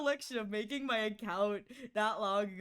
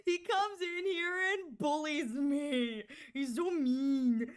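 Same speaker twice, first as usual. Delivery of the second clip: mock whine; 2 semitones higher, slower than usual. Playful fake complaint about Kumo.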